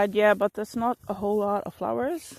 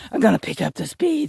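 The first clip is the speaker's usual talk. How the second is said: louder, pushing herself on; determined self-talk; 4 dB louder than usual. Retold or imitated. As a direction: psych yourself up out loud. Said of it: "And I was just like".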